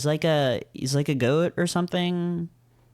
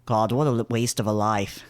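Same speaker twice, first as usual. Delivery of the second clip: put-on British accent; 4 semitones lower than usual. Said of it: "same British accent I was doing".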